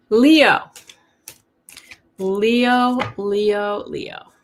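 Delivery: loud call across the room, fading; calling the cat. Real, not acted. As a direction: call out to the cat, then ease off.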